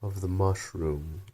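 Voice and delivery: very slow, drawn-out creature voice; caterpillar voice. Acted. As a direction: drawl it like a lazy, stern caterpillar. Caterpillar answering.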